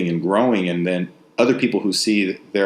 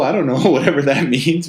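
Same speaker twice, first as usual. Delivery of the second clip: laughing; 5 semitones higher, 3 dB louder than usual. Real, not acted. Laughing at an unknown term.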